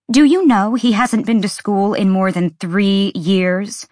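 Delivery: sharp, rising indignation; sharpened. Acted. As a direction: let the mother's voice sharpen. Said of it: "Ember's voice sharpened".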